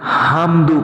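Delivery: حمدو with the throat ha said as a plain h; wrong tajweed. Shown as a demonstration. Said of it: "یعنی ہا کو ہا بولتے ہیں".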